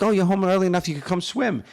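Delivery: put-on high, eager kid's plea; super excited. Kid urging dad to swim, high excited plea. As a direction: beg your dad to jump in, all excitement. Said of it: "I was, like, super excited".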